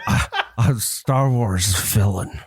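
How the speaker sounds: slow, lisped villain voice; slow villain impression; Ben Mendelsohn lisp. Shown as a demonstration. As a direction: attempt a lisp from the back of the throat. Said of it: "talking with a Ben Mendelsohn lisp".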